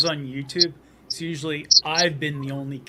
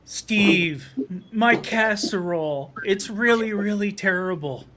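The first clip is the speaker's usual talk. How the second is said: skit customer; 5 semitones higher than usual. Retold or imitated. Missus Jones telling repairman about her casserole, high mock distress. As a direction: act out a troubled customer pleading for help. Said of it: "the skit that was John Candy".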